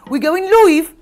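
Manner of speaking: exaggerated Black Country accent, loud and high; mock a broad Black Country accent, vowels stretched; Bobby Davro mocking her accent. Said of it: "accent ripped apart ... including by Bobby Davro".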